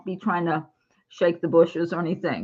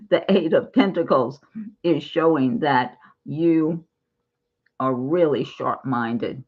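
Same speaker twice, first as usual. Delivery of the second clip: slightly slurred around a lozenge; mouth full. Real, not acted. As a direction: talk with a cough drop in mouth. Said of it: "sounds like I'm pronouncing things different".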